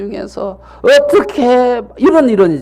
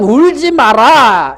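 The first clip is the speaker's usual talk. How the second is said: slow, firm and a bit louder, 울지 마라 as an order; cold command; 4 semitones higher, 4 dB louder, slower than usual. Retold or imitated. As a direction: say it bluntly like a cold rebuke. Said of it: "여기서 지금".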